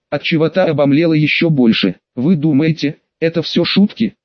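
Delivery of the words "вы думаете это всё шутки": ordinary delivery, nothing marked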